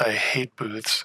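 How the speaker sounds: sour, low, muttered grumble under the breath. Voicing a character walking over to a booth: grumbling under her breath. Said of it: "grumbles under her breath".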